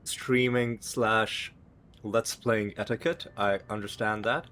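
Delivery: talking around a cough drop; mouth full. Real, not acted. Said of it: "'cause I got something in my mouth".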